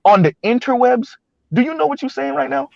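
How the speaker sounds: George W. Bush voice. Retold or imitated. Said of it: "Let me sound like George W. Bush for you".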